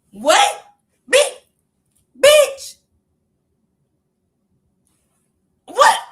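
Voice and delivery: high, loud bursts of disbelief; incredulous. Real, not acted. Woman reacts to a baffling text, loudly incredulous.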